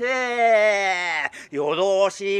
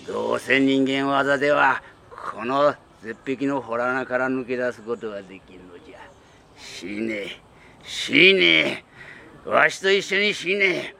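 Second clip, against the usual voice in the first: put-on old tengu voice; 6 semitones lower than usual. Tengu curses wife to die.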